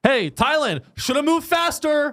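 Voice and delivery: high-pitched, laughing jeer; mock taunt. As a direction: rub it in with a sing-out taunt.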